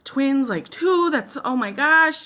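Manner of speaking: a touch of retold panic; reliving the shock. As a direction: build up loud and high on two. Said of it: "I was like".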